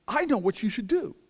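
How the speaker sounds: high, loud, grand pronouncement; mock great wisdom. Elder woman telling him she knows the answer, grandly wise. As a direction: announce it like a great revelation. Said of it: "of the greatest wisdom in the world".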